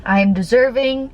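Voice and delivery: short declarations, composing yourself after crying; emotional affirmations. Real, not acted. Vlogger saying affirmations to herself after tearing up, emotional. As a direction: affirm yourself through held-back tears, pausing between phrases. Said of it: "I don't know why I'm getting emotional".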